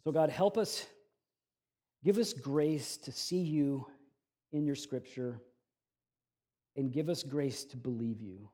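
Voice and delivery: slow, unhurried prayer to God; public prayer. Acted. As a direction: pray softly and reverently, with long pauses. Opens with a prayer.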